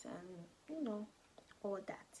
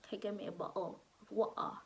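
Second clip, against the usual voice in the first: lightly imitated British accent, brisk; faster than usual. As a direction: try on a stereotypical British accent. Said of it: "I thought everybody had their accents".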